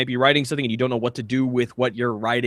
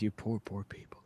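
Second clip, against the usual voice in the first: mock Australian accent; 7 semitones lower, 17 dB quieter than usual. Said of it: "Acclimating to an Australian accent".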